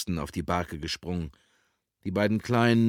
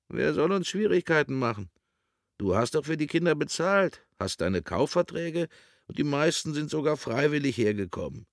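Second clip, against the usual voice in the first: higher-pitched, protesting man's voice; indignant questioning in a raised pitch; Carlo objecting; 7 semitones higher than usual. Acted. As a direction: push back, puzzled and insistent.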